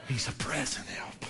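low, breath-only whisper; whispered assurance. Real, not acted. Preacher comforting the congregation about present help, whispered. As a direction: hush the promise right down.

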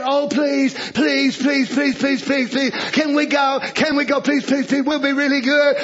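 mock pleading please, please; mock begging. Preacher mocking believers begging God to let them go, mock pleading. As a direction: whine it like a begging child. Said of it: "you going in there begging".

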